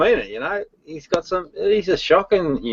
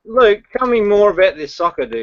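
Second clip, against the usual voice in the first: high teasing voice; 6 semitones higher than usual. Acted. Teasing high-pitched call.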